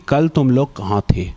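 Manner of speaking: low, stern demand from the principal; mock a strict principal's interrogation; angry principal. Principal confronts the bunking kids, low and stern. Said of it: "गुस्से में हमारी तरफ आने".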